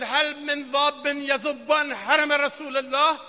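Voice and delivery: slow, ringing call for help from the pulpit; retold battlefield cry. Preacher voicing the cry for defenders, slow proclaimed call. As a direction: cry it out slowly to the crowd. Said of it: "فریاد زد".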